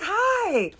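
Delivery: high, loud, drawn-out hello; excited squeal. Retold or imitated. Birthday girl jumps up to hug him, squealed greeting. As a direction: imitate an over-excited friend's greeting.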